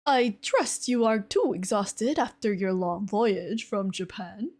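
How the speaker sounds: amateur attempt at a British accent; tentative, unconvincing British accent; bad British accent. Shown as a demonstration. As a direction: try a shaky-at-best British accent, reading formally. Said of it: "say this in a British accent".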